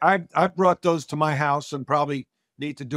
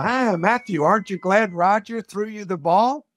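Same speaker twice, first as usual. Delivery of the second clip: teasing coach; 5 semitones higher than usual. Retold or imitated. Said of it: "And he's like".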